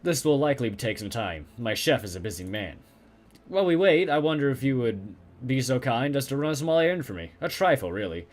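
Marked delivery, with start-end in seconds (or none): 3.5-8.3 vampire voice. Acted. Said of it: "speak like a fucking vampire".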